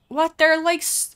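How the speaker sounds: high, loud indignant "What?"; outraged shout of disbelief; shocked outburst. Real, not acted. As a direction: blurt it out, stunned. Shocked by customer's complaint.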